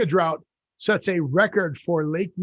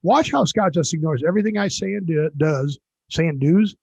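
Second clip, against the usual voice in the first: announcer; 3 dB louder than usual. Pretend. Mock show host intro.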